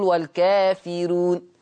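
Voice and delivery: والكافرون with a thinned, light r; light raa. Shown as a demonstration. Teacher showing Warsh reading, والكافرون with a softened raa. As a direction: keep the r in والكافرون light, not heavy. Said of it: "عشان كده بنقول الترقيق".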